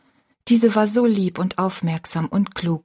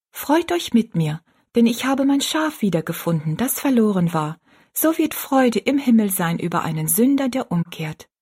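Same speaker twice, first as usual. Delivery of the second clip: higher, lilting recitation; child reading scripture; 3 semitones higher than usual. A narrator's reading. Rosalie reads the verse to the old woman, high and lilting. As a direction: read the verse out as a joyful child.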